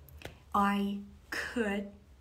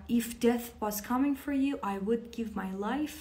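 slow lyric; much slower than usual. Shown as a demonstration. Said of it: "گوش کنید".

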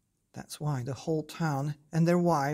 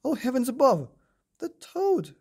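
high, louder cry of alarm; fearful shout; 9 semitones higher, 6 dB louder than usual. A narrator's reading. French townsfolk spotting the giant toad, a fearful high shout. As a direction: shriek it as if a monster appeared. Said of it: "we heard a fearful shout".

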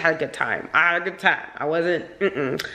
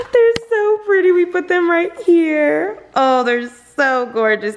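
high, louder, slow gushing over flowers; gushing delight; 12 semitones higher, 5 dB louder than usual. Real, not acted. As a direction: swoon over how pretty they are. Admiring her wedding flowers.

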